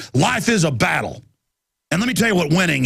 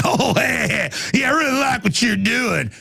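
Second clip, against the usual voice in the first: higher, voice put on, sneering friendliness; a hint of a sarcastic heckler; mock fake-friendly heckler; 4 semitones higher than usual. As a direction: play a two-faced guy faking praise. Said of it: "they're like".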